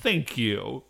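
put-on delighted kid voice. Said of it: "And Ichitaru's like".

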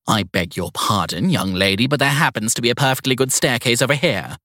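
put-on prim, scolding old lady; prissy strict schoolteacher voice. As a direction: correct the young woman sharply. Evelyn scolds Sadie.

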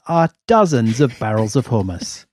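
lightly hammed-up infomercial host; a touch of showy presenter; mock TV presenter. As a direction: pitch it like a mock money-saving show. Mock money-saving expert video.

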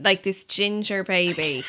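words breaking into real laughter; laughing. Real, not acted. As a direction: laugh through the punchline. Laughing while telling the punchline.

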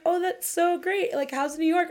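sing-songy voice. Retold or imitated. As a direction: bounce the words in a sugary sing-song. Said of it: "in this sing-songy voice".

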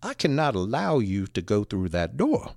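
understated officious firmness; stern. Retold or imitated. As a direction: lay down the rule, mildly stern. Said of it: "really, really sternly".

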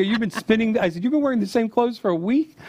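high, astonished disbelief; can't believe what he's hearing; incredulous. Retold or imitated. Son incredulous at dad's laundry.

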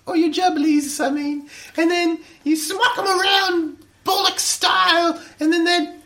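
mock British woman's voice, slowed at the start; imitating Missus H. Imitating Missus H while explaining a sex term. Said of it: "I do better if I'm imitating Missus H".

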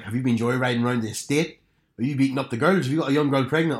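put-on strong Belfast accent, questions piling up; imitated Northern Irish mum rattling off accusations. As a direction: interrogate like a Belfast mother. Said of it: "Northern Irish mum".

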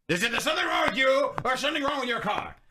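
lightly voiced grumpy old man; very old faint voice. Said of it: "Let me get in the character".

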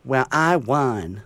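slow, smug "Well, I won"; lightly voiced gloating pageant girl; smug little girl. Ten-year-old pageant girl gloating to her sister, slow and smug. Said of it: "så da sitter hun ene og sier".

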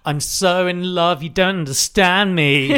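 mock lovesick teenager, drawn out; annoying teenager. Co-host mimicking the lovesick poet at fifteen, mock teenage whine. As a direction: lightly whine like a misunderstood teen. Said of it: "he's one of those annoying teenagers".

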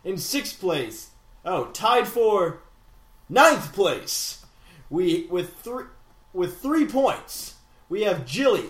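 slow, grand standings read; mock-epic contest announcer. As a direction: announce each place with stretched-out drama. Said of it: "That was way too epic".

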